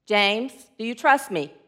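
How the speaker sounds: low, measured God voice; booming voice of God. Acted. God tests the hanging hiker, low voice. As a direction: ask it low and evenly, like a deity. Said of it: "it's a booming voice".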